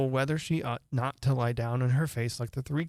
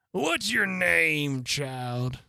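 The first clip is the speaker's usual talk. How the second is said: imperious queen; much slower than usual. Acted. Queen addresses Alice.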